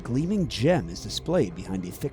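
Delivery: measured storyteller read, setting the scene; story narration. A narrator's reading. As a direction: draw the listener into the gala.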